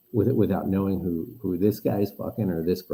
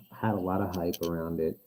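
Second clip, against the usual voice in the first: sounds like in a pool; muffled, far-off mic sound. Real, not acted. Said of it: "Are you in the pool now?".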